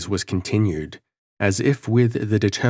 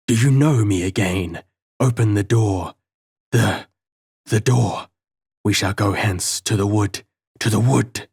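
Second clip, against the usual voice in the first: scornful stammering voice. A narrator's reading. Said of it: "scornful and malicious".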